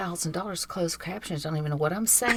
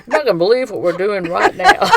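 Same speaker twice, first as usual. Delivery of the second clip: mock text message; 3 semitones higher, 6 dB louder, faster than usual. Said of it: "start texting".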